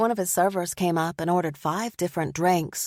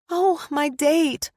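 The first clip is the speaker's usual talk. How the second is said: slow, high, louder alarmed exclamation; sudden realization; 9 semitones higher, 5 dB louder, slower than usual. A narrator's reading. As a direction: gasp at the forgotten date. Narrator remembers her date.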